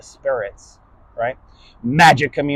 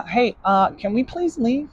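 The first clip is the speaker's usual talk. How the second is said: higher, softer timid asking; a nervous person begging quietly to go; timid plea; 6 semitones higher, 4 dB quieter than usual. Retold or imitated.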